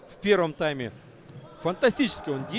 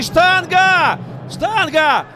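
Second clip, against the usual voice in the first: much higher, louder shouted "Штанга!"; excited shout; 10 semitones higher, 7 dB louder, much slower than usual. Real, not acted. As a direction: cry out at the post. Ball hits the post twice.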